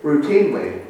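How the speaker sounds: chuckling through the word Routinely; laughing at himself. Real, not acted. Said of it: "I can't say it now".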